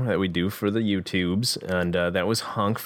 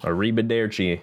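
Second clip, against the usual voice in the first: mock Italian. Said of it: "as they say".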